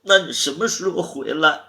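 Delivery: high tearful question; pleading, crying voice. Acted. 你别哭了.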